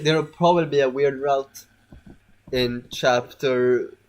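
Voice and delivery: slow, with long pauses between words; talking too slowly. Real, not acted. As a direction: drag out the words, halting mid-sentence. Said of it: "why am I talking so slow?".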